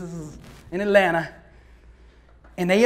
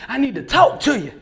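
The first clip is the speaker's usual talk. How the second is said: louder, pressing second ask; insistent repeat; 3 semitones higher, 5 dB louder than usual. Retold or imitated. Old man pulling Billy aside, louder insistent repeat. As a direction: push harder the second time.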